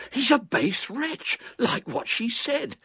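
put-on high, slow, drawn-out boy's voice; excited boy. A narrator's reading. Boy telling his squire about the villain, excited. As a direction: pronounce the verdict slowly and high, without shouting.

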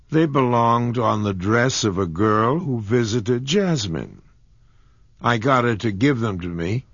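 put-on light, sheepish young girl explaining. A narrator's reading. Kismine explains the wrong drawer to John, sheepish girl.

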